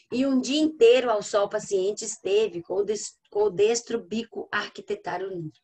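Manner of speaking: measured, deliberate verse reading; poem recitation. Acted. Teacher reading Parnassian verse to the class, measured recitation. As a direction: recite it with weight on the opening phrases.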